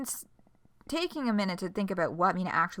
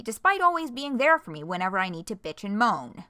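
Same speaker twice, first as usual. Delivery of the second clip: sarcastic whining; 3 semitones higher, 5 dB louder than usual. Acted. Mocking sulky complaint read aloud.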